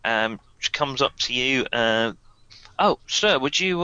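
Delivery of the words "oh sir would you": higher, bright American flight attendant voice; polite American cabin crew offering service; lightly American air hostess; American stewardess. Acted. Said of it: "she's American".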